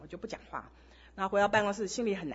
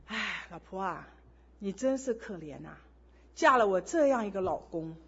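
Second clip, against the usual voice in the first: a husband calmly disarming his wife; gentle teasing; 4 semitones lower than usual. Retold or imitated. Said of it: "他微笑地看着我".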